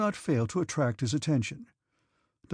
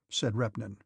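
ordinary delivery

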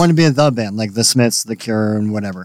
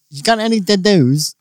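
higher-pitched mock Australian; imitated Australian accent; 4 semitones higher than usual. Bandmate voicing the bears for the others, mock Australian accent. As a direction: put on an Australian accent to ask. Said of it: "when I think of an Australian accent".

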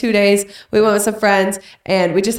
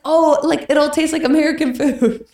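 higher, naive hopeful voice; mock hopeful self; 6 semitones higher than usual. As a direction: play your past self, higher and naive. Wife mocking her own hope.

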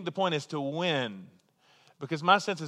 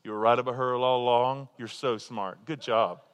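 a lightly voiced, approving God; God's voice; 4 semitones lower than usual. God telling a son he was right all along, fond praise. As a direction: speak as God flattering you. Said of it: "Don't you want God to just say".

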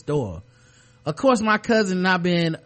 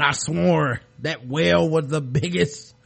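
put-on old fisherman voice. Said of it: "like an old fisherman".

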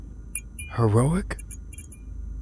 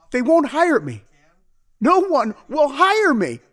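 desperate outburst; 12 semitones higher than usual. Acted. Husband pleading his failure.

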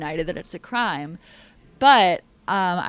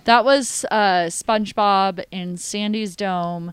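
character voice; 5 dB louder, slower than usual. Acted. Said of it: "I'm just doing a little character work".

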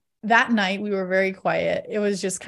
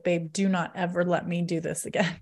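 laughing, pleading with her husband; laughing plea. Retold or imitated. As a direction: beg half-laughing never to do it again. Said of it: "I was like".

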